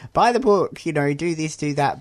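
pushy sales pitch. Retold or imitated. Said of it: "there's a lot of kind of emphasis on".

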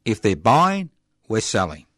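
lightly high sneering mock voice; mocking mouthpiece. Mocking profit ideology.

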